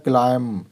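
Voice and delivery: क्लाइम said as klaim, no b sound at the end; silent b demo. Shown as a demonstration. Teacher showing pupils the correct way to say क्लाइम, silent b. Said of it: "केवल क्लाइम बोलना है".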